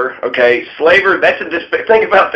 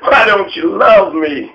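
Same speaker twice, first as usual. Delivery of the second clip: put-on pleading child voice, higher pitch; a leader begging Napoleon like a needy child, in a high pleading voice; mock begging child; 6 semitones higher than usual. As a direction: whine up high for daddy's love. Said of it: "He was begging Napoleon".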